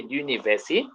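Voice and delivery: "universi-" begun as "lyuniversi", left unfinished with a rise; fuse an L onto "universi-"; French pronunciation. Shown as a demonstration. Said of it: "So we say".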